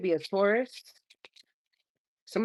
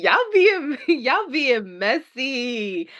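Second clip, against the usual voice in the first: laughing; 6 semitones higher, 5 dB louder, much slower than usual. Real, not acted. Teasing, laughing.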